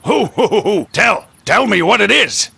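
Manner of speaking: high, loud, greedy for the gossip; breathlessly keen to hear the news; eager excitement. Acted. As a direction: burst out, desperate to be told.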